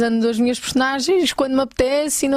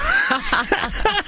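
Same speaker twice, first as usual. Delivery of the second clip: high squeal of a laugh; high embarrassed laugh; 12 semitones higher than usual. Real, not acted. Guest laughs at failing Braga accent, high laugh. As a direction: laugh at her own failure. After admitting she can't do accents.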